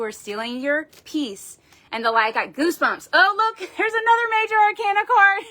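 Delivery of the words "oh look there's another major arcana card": high, delighted laugh through the words; a burst of real delight, higher and louder; laughing surprise. Real, not acted. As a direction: caught off guard by the card, laughing. Surprised by another card.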